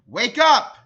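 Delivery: sharp, loud and high wake-up shout; loud yell. A narrator's reading. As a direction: shout it right in her ear. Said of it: "yelled at Amy as loud as she could".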